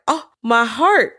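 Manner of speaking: slow, hammed-up wounded sigh; mock heartbreak. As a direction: clutch your chest in mock pain. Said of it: "I was like".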